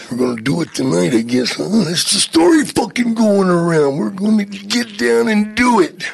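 lightly imitated pro wrestler, rising in intensity; Macho Man. Macho announcing tonight's plan, wrestler impression. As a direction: start restrained, build into the wrestler's voice. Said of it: "You did a great Macho Man".

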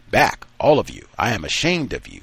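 commanding master barking an order; tone of authority. Acted. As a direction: scold the slaves from above, loud at the start. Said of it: "in a tone of authority".

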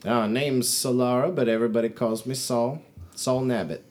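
lightly voiced plain-spoken trader woman; folksy trader. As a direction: introduce yourself as a folksy merchant.

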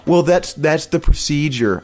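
prim, slowed mock receptionist voice; imitating the receptionist's canned answer. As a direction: parrot her line back, prissy and slow. Mocking the receptionist's reply.

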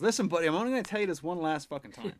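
a hint of a fed-up barman, quick and firm; irritated barman. Barman giving the chicken a last warning, mildly irritated. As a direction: lay down the final warning, half-joking. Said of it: "He goes".

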